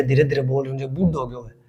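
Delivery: speaking slowly and softly. Real, not acted. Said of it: "मने लगे मैं बोली धीरे धीरे".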